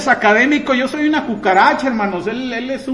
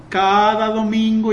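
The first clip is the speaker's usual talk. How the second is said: mocking priest's challenge; slower than usual. Preacher imitating a priest's taunting challenge, slow sing-song. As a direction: stretch each word like a smug challenge. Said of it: "Y le hacía así con ese tono".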